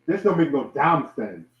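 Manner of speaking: flat African accent. Real, not acted. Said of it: "I love my African accents".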